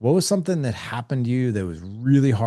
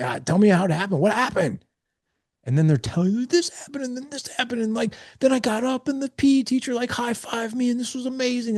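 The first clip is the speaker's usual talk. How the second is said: much higher, hammed-up kid voice gushing; kid's excited retelling. A boy gushing to his dad about PE class, high and excited. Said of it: "They're like".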